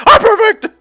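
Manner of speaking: high, loud mock yell; hammed-up boast; Perfect Cell scream. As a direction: blurt it as a villain. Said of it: "His excuse".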